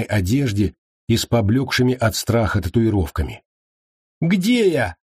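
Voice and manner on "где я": high bewildered squeak; high scared question; frightened captive. A narrator's reading. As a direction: ask it high and lost. Dazed captive wakes.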